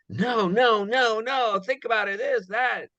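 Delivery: dismissive brush-off. Retold or imitated. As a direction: wave the pitch away, mock-impatient. People brushing off his pitch.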